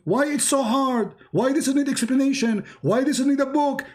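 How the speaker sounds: exasperated pleading questions. Real, not acted. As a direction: push each why up in frustration.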